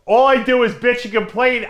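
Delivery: imitating Jimmy complaining. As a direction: lightly imitate a friend's complaining. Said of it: "Jimmy says to me".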